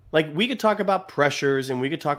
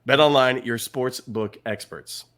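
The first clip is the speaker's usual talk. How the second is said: punchy, louder then slow slogan; ad tagline; 3 dB louder than usual. Acted. Host closing the ad break, punchy slogan read. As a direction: land the sponsor slogan.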